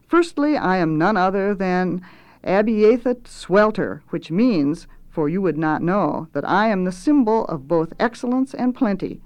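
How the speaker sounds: lightly voiced pompous announcement; lordly cook instructing underlings; self-important chef. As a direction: introduce yourself grandly, lifting to the question. Swelter names himself.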